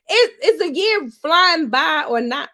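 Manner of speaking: excited hype line. Shown as a demonstration. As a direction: throw it out to the crowd. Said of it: "Wait a minute".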